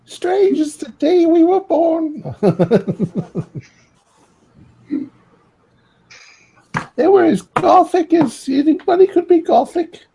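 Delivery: a high-pitched villager, laughing at his own voice; odd character voice. Acted. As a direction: pitch the voice way up for a strange local. GM voicing odd townsfolk.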